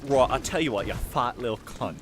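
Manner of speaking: lightly imitated posh UK accent; stuck-up British accent, mildly hammed. Streamer quoting an audio bit to show the accent, mock posh British. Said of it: "one of the best examples of that, of that accent".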